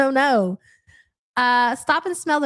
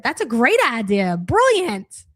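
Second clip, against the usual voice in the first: sarcastic. Real, not acted. Sarcastic praise.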